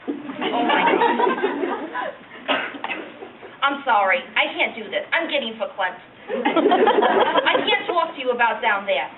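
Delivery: put-on reluctant, embarrassed old lady reminiscing; old woman. Old lady telling a young interviewer about down there, embarrassed old-woman voice. Elderly woman's monologue after plain introduction.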